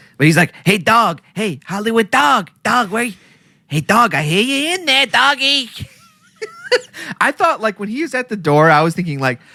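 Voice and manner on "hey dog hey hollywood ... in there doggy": put-on New York accent, called out loudly. Retelling how a character calls to a dog at the door, new york accent. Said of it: "he's real like New Yorky kind of like accent".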